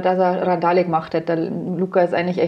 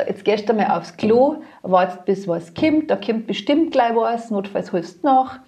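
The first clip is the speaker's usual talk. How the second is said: slow, calm, patient instructions; a mother calmly telling her drunk daughter what to do; mother's advice; slower than usual. Retold or imitated. Slow, calm mother's advice.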